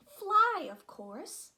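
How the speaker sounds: loud, high burst on one word; a bold loud cry; exclaimed. Acted. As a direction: call it out with confident glee. Peter calls out the answer.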